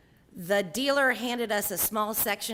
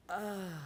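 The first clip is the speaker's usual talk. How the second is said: soft, drawn-out moan of bliss; quiet mock moan of intoxication; demonstrated heroin moan; 7 dB quieter than usual. Shown as a demonstration. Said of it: "the heroin moan".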